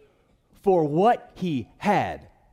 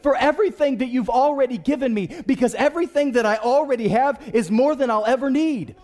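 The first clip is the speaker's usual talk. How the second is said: high, fervent acted thanksgiving; worked-up grateful outburst; exultant thanks; 4 semitones higher than usual. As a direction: pour out thanks to Jesus. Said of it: "and just said".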